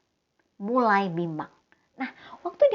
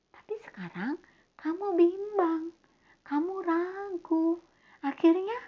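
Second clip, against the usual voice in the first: gentle rebuke; 6 semitones higher, 4 dB quieter than usual. Acted. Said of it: "Tuhan Yesus tegur loh".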